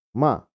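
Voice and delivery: "ma" dropping sharply; falling tone. Shown as a demonstration. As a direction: fourth tone on "ma", cut down hard. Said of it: "nada turun".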